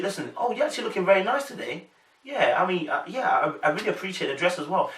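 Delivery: quick, polite small talk; brisk friendly courtesy with no flirting in it; lightly acted casual politeness; politely neutral compliment. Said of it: "the two don't match".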